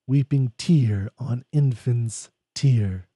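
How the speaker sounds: slow, measured poem recital; poem reading. Acted. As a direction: read it slowly and gently. Reads stanza slowly.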